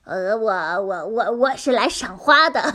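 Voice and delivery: nervous stammering excuse; flustered stammer. Acted. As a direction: stumble over the lie. Fox caught lying, stammering.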